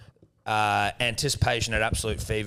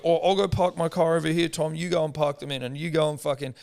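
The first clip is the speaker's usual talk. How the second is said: higher mocking voice, breezy and careless; teasing his cohost about parking everyone in; 5 semitones higher than usual. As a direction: mimic him brushing it off lightly.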